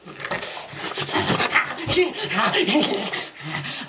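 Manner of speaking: long voiceless wheezing laugh; mock-crazed, breath-heavy laughter; unhinged laugh. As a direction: laugh like you've snapped. Unhinged laugh before mock threat.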